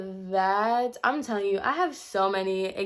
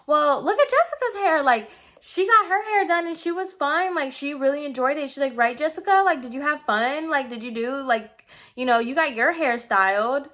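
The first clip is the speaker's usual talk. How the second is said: high fake-cheerful teacher voice, much higher; mocking the educator; 5 semitones higher than usual. Educator holds up Jessica's curly hair as proof, high mocking imitation. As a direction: mimic a patronising instructor, pitched way up. Educator defending her work.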